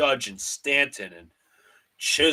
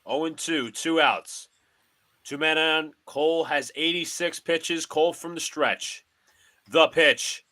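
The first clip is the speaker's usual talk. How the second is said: broadcaster cadence, calling each pitch; mock radio play-by-play of a Yankees game; 4 semitones higher than usual. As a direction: call the game like a TV announcer.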